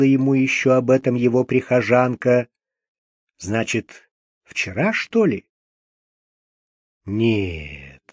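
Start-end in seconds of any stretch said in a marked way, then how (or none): 3.4-8.0 low, voiceless whisper to himself. Acted. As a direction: breathe the word as a private thought. Lev's inner thought. (шёпотом, про себя)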